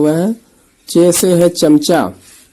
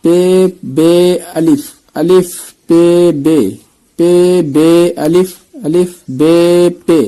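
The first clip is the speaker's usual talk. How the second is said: slow letter drill; slower than usual. Shown as a demonstration. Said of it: "یہاں پہ حرف کو پہچاننا ہے".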